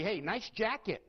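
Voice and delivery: genuine, friendly "Hey, nice jacket."; mean it as a real compliment; an honest, pleasant "nice jacket"; sincere compliment. Shown as a demonstration. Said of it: "I can use the exact same words and say".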